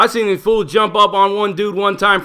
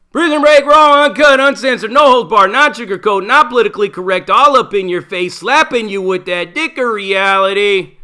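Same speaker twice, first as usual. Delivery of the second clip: hype outro; 4 dB louder than usual. Acted. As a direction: blast the show's slogan like a promo read.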